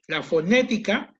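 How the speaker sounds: loud, deliberate teacher's heading; emphatic dictation. Shown as a demonstration. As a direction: announce La fonética to the class like a heading. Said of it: "como me decían acá".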